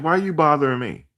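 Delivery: high, pleading why-are-you-bothering-me; exasperated protest. Retold or imitated.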